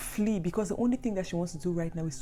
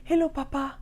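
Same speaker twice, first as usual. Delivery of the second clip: higher, louder happy hello; eager greeting; 8 semitones higher, 7 dB louder than usual. Acted. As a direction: greet your father's spirit with delight. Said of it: "Darren is over here like".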